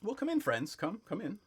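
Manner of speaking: high-pitched hospitable shopkeeper; welcoming shopkeeper. Acted. Shopkeeper invites new friends inside, high welcome. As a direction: usher them in with a high voice.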